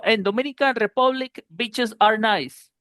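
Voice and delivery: short lax ih in BEACHES, imitating the slip; mispronounced short i. Teacher quoting his classmate's slip, short i. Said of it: "porque dijo beaches".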